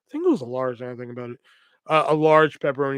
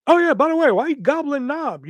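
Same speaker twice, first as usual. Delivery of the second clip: sarcastic afterthought; 11 semitones higher, 3 dB louder than usual. Retold or imitated. Mock afterthought to friend.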